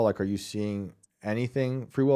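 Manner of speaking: usual speaking voice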